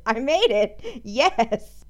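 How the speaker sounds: triumphant cheer; excited. Real, not acted. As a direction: celebrate getting it right. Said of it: "Could you hear the excitement in my voice".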